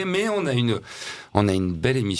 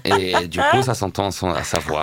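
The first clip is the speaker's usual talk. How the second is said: laughing. Real, not acted. Laughing through the intro.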